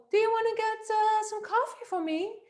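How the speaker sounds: put-on voice held very high; high-pitched woman voice. Shown as a demonstration. Coach imitating a woman lacking authority, high-pitched voice. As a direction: ask in a high, feminine pitch. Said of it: "imagine the high-pitched, uh, woman voice".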